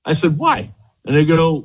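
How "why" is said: surprised question. Retold or imitated. Retold shock that the program ended.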